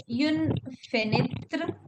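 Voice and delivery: "une fenêtre" slowly in French, for repeating; French pronunciation. Shown as a demonstration. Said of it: "can you repeat une fenêtre".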